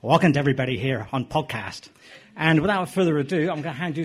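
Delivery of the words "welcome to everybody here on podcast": put-on Irish accent. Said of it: "in my famous, uh, Irish accent".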